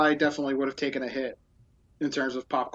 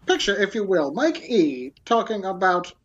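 put-on old-timey voice; 3 semitones higher than usual. Shown as a demonstration. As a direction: announce it like a 1940s newsreel. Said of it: "old-timey voice".

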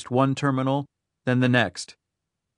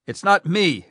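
sharp, louder and higher snap; snapped; 6 semitones higher, 5 dB louder than usual. A narrator's reading. Rhyme snaps at his aide, impatient. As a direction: cut him off sharply. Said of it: "his boss snapped".

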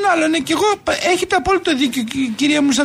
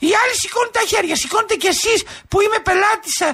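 indignant protest; 4 semitones higher than usual. Acted. Caller protests at being refused fuel.

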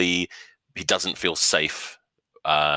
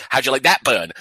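a loud, higher mock taunt; 7 semitones higher, 6 dB louder than usual. Girlfriend throwing it back at him, loud mocking taunt. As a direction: jeer it back at him, louder.

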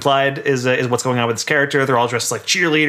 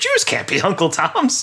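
slow, raised-pitch imitated protest; mock objection; 5 semitones higher, slower than usual. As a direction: drag out a mock-baffled objection. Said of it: "And it's like".

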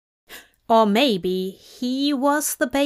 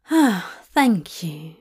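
relieved thanks; 3 semitones lower, slower than usual. A narrator's reading. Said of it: "Aziraphale sighed with relief".

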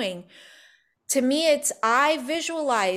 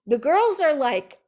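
ordinary delivery

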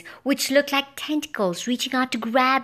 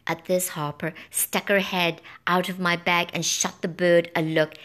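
ordinary delivery

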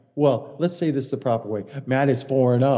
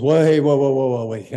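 mock Poulter holler; 6 dB louder than usual. Poulter stopping young Dustin from going at the pin, loud mock warning. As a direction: hold him back with a loud whoa. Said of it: "Poulter comes over and he goes".

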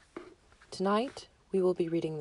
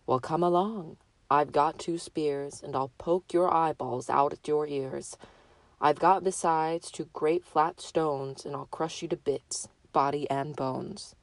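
a lightly voiced hoarse billy goat. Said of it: "an ugly, hoarse voice of his own".

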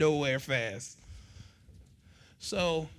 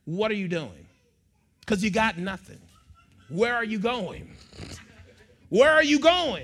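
stern dad; 4 dB louder than usual. Retold or imitated. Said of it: "I would say to her".

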